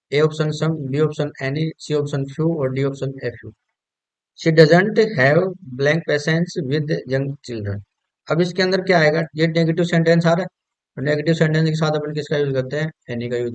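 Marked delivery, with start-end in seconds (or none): 4.4-7.8 slow, stressed repeat. Shown as a demonstration.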